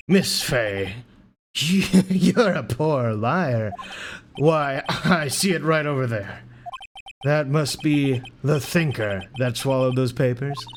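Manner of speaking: slow, drawn-out villain with a chuckle; smug villain. Acted. Villain accusing Miss Fey of lying, slow and gloating. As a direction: toy with your victim, stretching the words.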